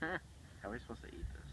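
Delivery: breathy whispered question. Real, not acted. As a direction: whisper it in dismay. Dismayed aside while folding paper.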